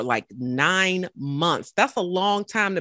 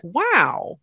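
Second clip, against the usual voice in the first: near tears; 9 semitones higher, 5 dB louder than usual. Real, not acted. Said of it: "I have, like, almost tears in my eyes".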